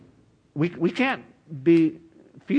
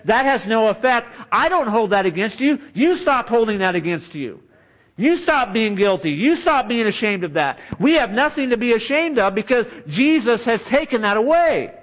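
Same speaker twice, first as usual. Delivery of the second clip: rising, louder preaching build; fervent preaching; 5 semitones higher, 3 dB louder than usual. Acted. Preacher voicing Jesus to the congregation, fervent. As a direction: preach it with growing fire.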